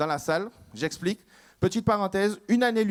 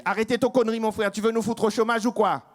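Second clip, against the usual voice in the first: Guyanais qui râle; 4 semitones higher than usual. Acted. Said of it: "le Guyanais qui lui fait".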